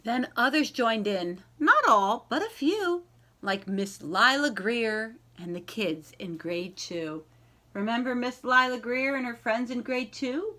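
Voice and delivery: slow, lilting read-aloud voice; gentle picture-book narration with rhyming lilt; storybook reading. Acted. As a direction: read it to a class of young kids. Teacher reads picture book aloud.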